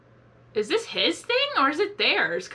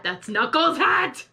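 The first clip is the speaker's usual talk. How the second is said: louder, drawn-out exclamation; excited outburst; 3 semitones higher, 5 dB louder, slower than usual. Real, not acted. Reactor to viewers on spotting the hat, excited. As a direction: blurt it out, thrilled at the discovery.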